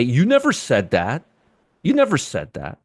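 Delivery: whining imitation of a doubting viewer; mock viewer complaint. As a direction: play the annoyed viewer who swears you never said it. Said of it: "somebody's gonna say".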